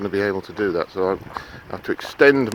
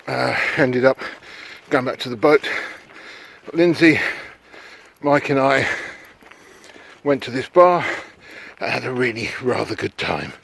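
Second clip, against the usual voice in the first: puffing while walking uphill; breathless from climbing a hill; out of breath; 4 semitones higher than usual. Real, not acted. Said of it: "it's not why I'm out of breath".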